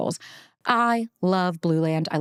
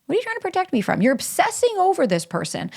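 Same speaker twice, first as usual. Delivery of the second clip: high, pleading question to the inner part; gently probing the obsessive part in a high voice; 11 semitones higher than usual. Shown as a demonstration. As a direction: pitch it way up as if asking a scared part. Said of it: "ask the part of you that's obsessing".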